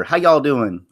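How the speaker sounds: mild, casual Southern drawl; easygoing Southern greeting. Real, not acted. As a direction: ask it with a light Southern twang. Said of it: "I just had a sudden drawl there".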